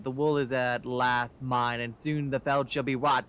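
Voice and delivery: lightly voiced gloating schemer; a hint of a theatrical villain; mad scientist.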